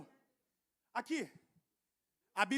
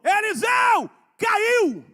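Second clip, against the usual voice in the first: higher, louder alarmed cry; shouting to Eliseu; 8 semitones higher, 7 dB louder, much slower than usual. Retold or imitated. The boy crying out to the prophet, loud and alarmed. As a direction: call out that the axe head fell. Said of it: "ele gritou".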